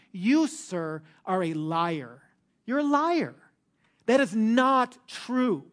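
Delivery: sharp accusation rising high on "You're a liar"; accusing. Retold or imitated. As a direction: call him a liar to his face, slow on the last line. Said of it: "they essentially say to him".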